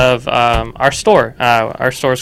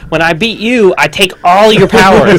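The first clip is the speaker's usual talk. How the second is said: dramatic voice; 6 semitones higher, 6 dB louder than usual. Acted. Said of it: "It's like Highlander".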